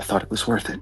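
soft, hushed, drifting whisper. Voicing a character who sends memories to another, whispering in character. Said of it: "kind of whispers".

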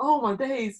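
speech broken by laughter. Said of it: "catch my breath".

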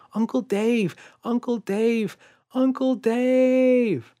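very high, very slow, drawn-out calling out. Narrating Ruby shouting for Uncle Dave after a huge explosion, shouting. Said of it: "as she shouted".

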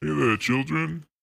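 gruff, rough, creaky put-on character voice. Greeting the others jokingly: Chef from South Park voice. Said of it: "I was saying that like Chef from South Park".

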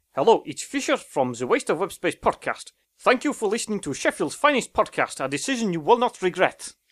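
rough German accent attempt. A podcast host tries an accent for a co-host to guess, attempted German accent. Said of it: "I was actually aiming for German there".

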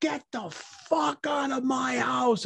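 very high, stretched-out, drawn-out shrieking scream. Retelling how the party host screamed while throwing things: imitating someone screaming. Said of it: "he's screaming up there".

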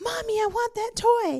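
put-on high-pitched little boy's voice. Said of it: "and he says".

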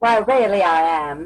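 put-on old-fashioned mid-Atlantic accent, pitched very high. Improviser asked if she knows the mid-Atlantic accent answers in Katharine Hepburn mid-Atlantic accent. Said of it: "Was that Katharine Hepburn?".

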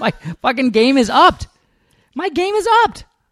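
shrill, very high, climbing voice sounding annoyed. Annoyed podcaster snapping back at the other host, getting shrill. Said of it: "You're getting shrill".

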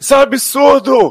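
very high, shrill, yelled shouting outburst. Retelling how a man started shouting during a confrontation, imitating his shouting. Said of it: "ele já começa a gritar".

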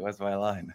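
mock whispering. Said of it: "you're whispering to me".

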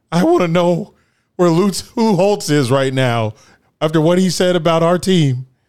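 fake tearful, choking voice. Retelling an emotional post-game interview: imitating Ryan Day tearing up. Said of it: "tearing up, choking on his words".

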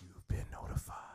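breathy, close whisper right into the mic. Repeating the podcast name into the mic after the welcome: whispering into the mic. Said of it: "Why you gotta whisper like that".

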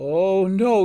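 high gasp. Sister Cat hears the signal for citizens to head home, gasped. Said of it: "she gasped".

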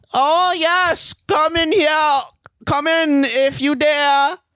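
very high-pitched put-on German accent. Visitors arrive and are invited in, practicing a German accent. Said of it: "I'll just practice my German accent".

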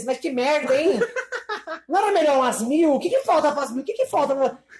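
blunt, no-filter voice, high-pitched. Imitating a mother complaining about view counts: imitating the other speaker's mother. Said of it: "Tipo a sua mãe".

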